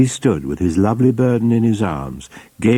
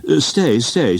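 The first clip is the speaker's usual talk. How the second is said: much higher fussy little lawyer; little Mister Perker; 7 semitones higher, slower than usual. A narrator's reading. Little lawyer hastily holding back the angry party, high and fussy. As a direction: stop them, fluttering and anxious. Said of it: "said little Mister Perker".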